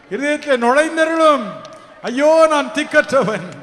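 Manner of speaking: preacher voicing a desperate plea; pleading lament. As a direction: cry out as a helpless sinner. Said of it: "என்று புலம்புவீர்களா?".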